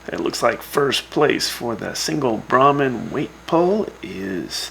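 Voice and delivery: measured radio results read-out with lifted emphasis; results announcer. Acted. Radio host reading Brahmin Games results to listeners, announcer delivery. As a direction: announce the winners, drawing out key figures.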